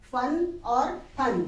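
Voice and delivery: फन और फन slow, first aspirated ph then f; fa and fa contrast. Shown as a demonstration. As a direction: say फन twice slowly, ph then lip-teeth f. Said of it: "हम हर एक में फ ही बोलते हैं".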